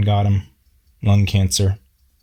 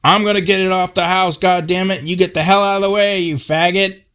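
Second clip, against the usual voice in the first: angry yell; 10 semitones higher than usual. Retold or imitated. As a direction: bellow at them to clear off. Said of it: "Paul just yells out".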